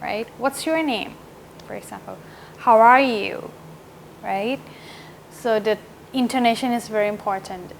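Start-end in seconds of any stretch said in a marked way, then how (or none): 0.4-1.1 "What's your name" lifted, then falling; up-and-down intonation. Shown as a demonstration. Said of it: "the tone has to go up and down". 2.6-3.5 "How are you" rising, then falling; up-and-down intonation. Shown as a demonstration. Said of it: "the tone has to go up and down".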